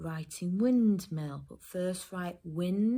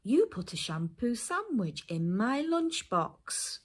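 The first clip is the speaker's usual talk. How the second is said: put-on higher-pitched dictation to children; 6 semitones higher than usual. Shown as a demonstration. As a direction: dictate the sentence clearly, word by word. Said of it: "say the sentence one more time".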